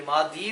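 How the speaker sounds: मादी ending on open long i. Shown as a demonstration. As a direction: say मादी without any final n. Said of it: "भी नहीं पढ़ेंगे".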